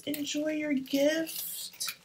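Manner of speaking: touched reading. Real, not acted. Reading the gift card from the sponsor, touched. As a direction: read the card gently, almost teary. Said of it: "and it says".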